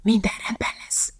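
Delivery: soft unvoiced whisper. Calvin reassuring nervous Elizabeth in the boat, whispered. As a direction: breathe it to her so nobody hears. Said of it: "súgta Calvin".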